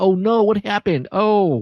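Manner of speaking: very high, startled, surprised shout of alarm. Narrating the shouts heard from the temple area: surprised shouting. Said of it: "you hear like shouts in surprise".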